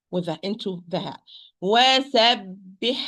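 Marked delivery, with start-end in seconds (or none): 1.6-3.0 "وَسَبِّحْهُ" with breathy ح then a separate هُ; careful two-sound ending on "وَسَبِّحْهُ"; unmerged ha. Shown as a demonstration. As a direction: keep ح and هُ clearly apart in "وَسَبِّحْهُ". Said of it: "difficult to merge it in".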